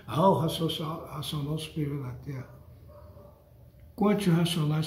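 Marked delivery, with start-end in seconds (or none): 0.1-2.6 dismissive mock quote. Preacher imitating followers who repeat the title, dismissive mumble. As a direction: toss it off like a rote phrase. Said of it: "Vocês falam".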